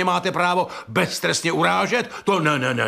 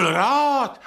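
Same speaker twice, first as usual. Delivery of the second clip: angry shout; 7 semitones higher than usual. Acted. Shouting back in the quarrel.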